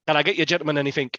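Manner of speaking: quick, casual barman's offer; a hint of a busy barman; lightly voiced barman. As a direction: rattle off the offer briskly. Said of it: "the barman's behind there".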